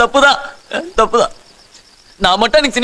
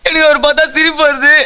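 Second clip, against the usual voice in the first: tearful, near crying. Acted. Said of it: "உள்ள அழுவையா இருக்குது".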